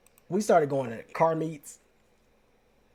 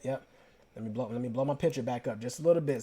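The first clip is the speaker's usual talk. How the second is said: usual speaking voice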